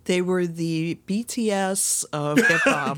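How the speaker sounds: laughing. Real, not acted. Joking comparison, laughing.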